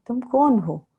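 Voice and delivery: put-on softly, lovingly admonishing a child; loving correction. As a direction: speak as a mother correcting her child with love. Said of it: "उसको मम्मा बड़े प्यार से कहती थी".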